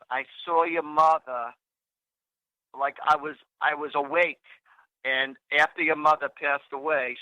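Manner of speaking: lightly imitated Boston accent. Cousin telling of seeing his mother, Boston accent. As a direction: retell it with a touch of Boston. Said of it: "in her Boston accent".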